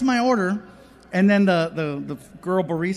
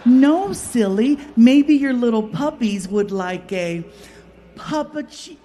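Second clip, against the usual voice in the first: sweet barista; 4 semitones higher, 6 dB louder than usual. Retold or imitated. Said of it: "she goes".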